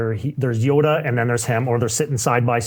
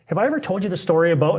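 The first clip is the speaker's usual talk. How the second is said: imitating Gino; 5 semitones higher, faster than usual. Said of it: "it usually goes like this".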